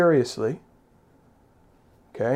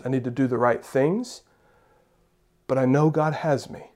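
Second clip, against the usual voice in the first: calm trust; 2 semitones lower than usual. Pretend. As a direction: speak like someone at peace. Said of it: "we can say".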